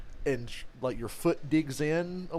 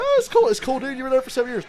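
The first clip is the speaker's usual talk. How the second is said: imitating Stephen A; 9 semitones higher, 6 dB louder, faster than usual. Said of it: "He's like".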